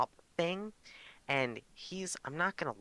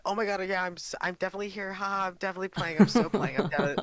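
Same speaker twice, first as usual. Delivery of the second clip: high, fast, flustered babble; flustered panic; 9 semitones higher, 6 dB louder, much faster than usual. Retold or imitated. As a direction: gush nervously, caught out. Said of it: "like, panicking".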